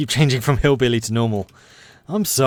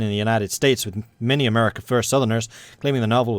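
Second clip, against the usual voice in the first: news read. Acted. Reads news event.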